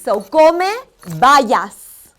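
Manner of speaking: teacher modelling come bayas word by word; enunciated lesson model; slow Spanish drill. Shown as a demonstration. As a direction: come loud and rising, then bayas dropping to a breathy fall. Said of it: "We're gonna try that one more time".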